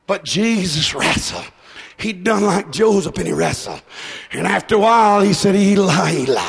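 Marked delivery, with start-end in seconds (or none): 5.5-6.4 anguished cry. Acted. Preacher voicing Jesus on the cross, anguished cries. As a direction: wail the name in anguish.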